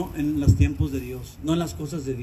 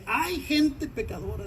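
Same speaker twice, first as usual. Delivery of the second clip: slow, high, soft groaning cry of grief; groaning lament; 8 semitones higher, 5 dB quieter, slower than usual. Retold or imitated. Pastor voicing God's lament over his sinful people, slow groaning cry. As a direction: moan it out like a grieving father. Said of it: "Dios dice gimiendo".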